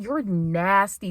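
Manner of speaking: slow flat You're nasty; disgusted. Retold or imitated. Texting the frat, flat slow disgust. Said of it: "I'm just like".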